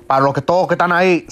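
put-on playful Dominican Spanish accent; Dominican-accented Spanish aside. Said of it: "that's my Dominican accent".

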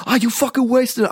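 high, slow raspy rock-frontman call. Retold or imitated. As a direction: rasp it out like a hoarse rock singer. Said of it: "also dieses".

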